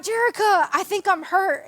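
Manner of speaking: mildly acted high-pitched plea; retold plaintive call. Hurt player calls to laughing friend for help, mock plea. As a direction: call the friend's name high, then plead.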